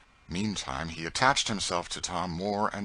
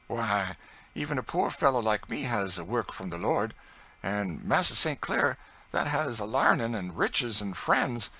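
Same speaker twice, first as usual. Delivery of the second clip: higher, louder humble servant voice; Tom's earnest voice; 4 semitones higher, 4 dB louder than usual. Acted. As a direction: explain humbly but with conviction. Tom explains God's work.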